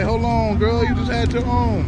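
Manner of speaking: sassy retort. Retold or imitated. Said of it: "I was about to say".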